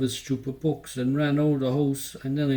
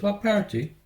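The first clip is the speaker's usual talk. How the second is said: surprised; 7 semitones higher than usual. Acted. Boy confused by mam's party.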